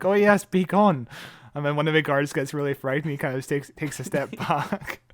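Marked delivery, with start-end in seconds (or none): 0.0-1.1 higher, louder, slow theatrical proclamation; hammed-up mystic pronouncement; mock grand witch. Clara half-heartedly playing a witch for the guards, slow and grand. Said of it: "where she's like".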